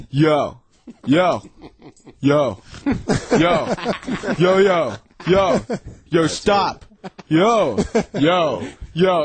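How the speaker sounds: deadpan repeated calls, spaced out; dead serious. Retold or imitated. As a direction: imitate someone earnestly repeating himself. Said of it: "he seriously says in each take".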